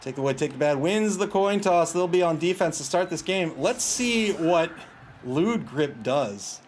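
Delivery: lively live commentary; play-by-play. Real, not acted. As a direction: call the match like a sportscaster.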